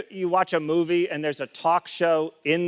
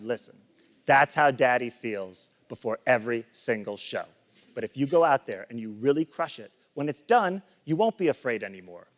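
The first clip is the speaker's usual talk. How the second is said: lower, understated fatherly talk; mildly reassuring dad; 5 semitones lower than usual. Retold or imitated. Father reassures scared son before show.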